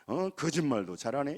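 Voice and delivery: low, soft, drawn-out disbelief; skeptical inner remark. Retold or imitated. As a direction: mutter a doubter's scoff, dragging the first words. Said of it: "이렇게 생각해요".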